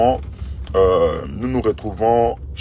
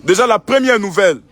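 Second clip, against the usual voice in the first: shouted announcement; 9 semitones higher, 5 dB louder than usual. Real, not acted. Pastor announcing to the crowded church that all will be received, shouted. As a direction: proclaim it so the back rows hear.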